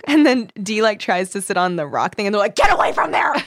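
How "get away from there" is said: high, hammed-up warning; mock alarmed yell. Host voices the frat stopping Dee at the rock, mock alarmed yell. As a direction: yelp it, half laughing.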